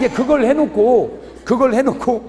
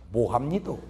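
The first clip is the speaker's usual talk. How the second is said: softer, balking Gyeongsang protest; Gyeongsang man balking; 9 semitones lower, 8 dB quieter than usual. Retold or imitated. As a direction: refuse in dialect, a touch embarrassed. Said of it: "경상도 남자 그 딱 숙제를 보는 순간". (경상도 사투리로 못 하겠다고 버티듯)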